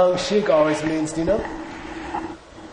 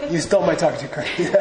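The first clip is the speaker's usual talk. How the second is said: fast, laughing mock accusation; much faster than usual. Shown as a demonstration. Teacher joking with students, laughing through the line. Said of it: "you would go".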